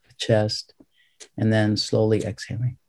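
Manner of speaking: unhurried breathing instructions with long pauses; calm, measured meditation teacher; guided meditation. Real, not acted. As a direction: guide each breath, leaving space after it.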